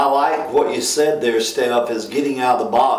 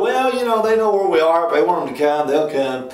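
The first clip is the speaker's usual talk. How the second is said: mocking complacent church; 4 semitones higher, faster than usual. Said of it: "What a terrible attitude to go".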